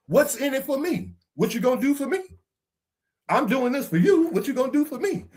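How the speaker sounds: lightly mocking a selfish partner. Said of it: "This is the mentality of humanity now".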